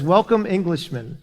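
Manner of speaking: a hint of a British accent; lightly put-on British greeting. Squanto greeting the pilgrims in a light British accent. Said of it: "In a perfect British accent, he says".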